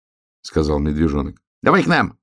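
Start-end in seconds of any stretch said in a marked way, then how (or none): 1.6-2.2 hare calling out. A narrator's reading. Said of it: "крикнул заяц".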